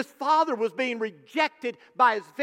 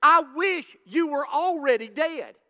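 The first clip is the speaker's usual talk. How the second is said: raised, demanding voice of a rebellious son; defiant demanding son; 3 semitones higher than usual. Acted. Son demands his inheritance from his father, defiant and raised. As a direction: command it like a son who wants his father gone. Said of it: "this younger brother was saying".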